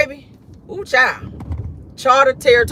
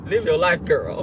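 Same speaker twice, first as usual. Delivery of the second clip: put-on "girl" set apart on a low drop; low, falling "girl"; stress on GIRL; 5 semitones lower than usual. Shown as a demonstration. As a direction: put the emphasis on "girl", pitched down. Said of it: "Emphasis on the girl".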